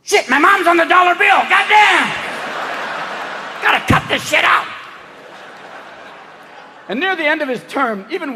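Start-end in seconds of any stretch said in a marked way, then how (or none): 0.0-4.7 high, loud startled outburst; mock shocked shout. Bush noticing his mom on the dollar bill, loud shocked outburst. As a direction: yelp it in sudden panic. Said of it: "he was like".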